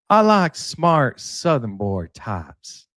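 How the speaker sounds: slow, lightly put-on Southern drawl on "I like smart Southern boy types"; a half-hearted stab at a Southern American accent; bad Southern accent. Shown as a demonstration. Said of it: "my Southern accent is terrible".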